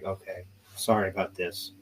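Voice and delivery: soft, low retold apology; gentle, low-key sorry; super nice officer. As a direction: imitate a kindly officer quietly apologizing. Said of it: "being super nice to me".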